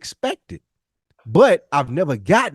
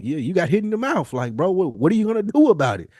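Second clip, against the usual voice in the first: tough-love challenge; 4 semitones higher than usual. Retold or imitated.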